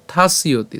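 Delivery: "থাস্যতি" slowly as thaas-iyo-ti; y-glide pronunciation. Shown as a demonstration. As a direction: break "থাস্যতি" after thaas, then glide. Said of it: "থাস উচ্চারণ করে জফলার". ("থাস্যতি" ধীরে, জফলা ইয়-র মতো)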